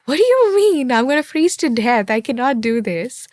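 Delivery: scared newcomer on her first cold night; mock panic. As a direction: panic about freezing, half joking.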